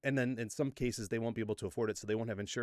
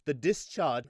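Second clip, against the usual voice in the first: put-on slipping into a British accent; brief mock-British pronunciation; 3 dB louder, slower than usual. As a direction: say "discharge" with a British dropped R. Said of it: "I keep going to the British accents".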